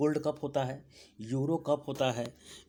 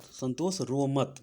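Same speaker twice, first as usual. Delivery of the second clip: slow mnemonic; slower than usual. Shown as a demonstration. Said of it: "आ, इधर आइए".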